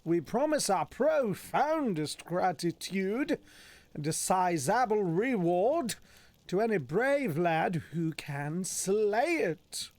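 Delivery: swooping, theatrical proclamation; notice read in character. Acted. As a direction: read it out grandly, drawing out the key words.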